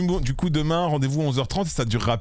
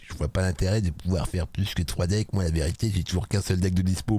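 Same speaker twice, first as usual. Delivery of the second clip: mocking a friend; 6 semitones lower than usual. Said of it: "je me rappelle d'un Intel qui disait".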